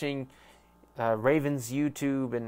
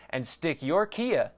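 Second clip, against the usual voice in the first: ad read; 3 semitones higher, slower than usual. Acted. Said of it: "That was a shit ad".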